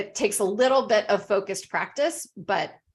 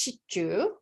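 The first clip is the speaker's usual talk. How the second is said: Japanese pronunciation; 4 dB quieter than usual. Shown as a demonstration. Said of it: "in Japanese, it's".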